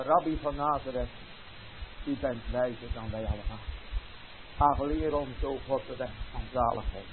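humble plea. Pretend. Imagined humble confession to the rabbi, soft pleading. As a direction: kneel and beg in a hush.

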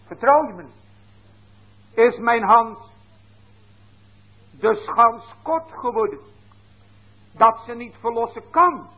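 as God, pressing the unfaithful people; voice of the Lord. Acted. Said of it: "zegt de Heer".

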